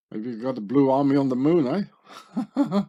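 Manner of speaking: laughing through a mocking joke, a bit fast. Real, not acted. Vlogger mocking police on the moon, laughing. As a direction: chuckle while you tease them.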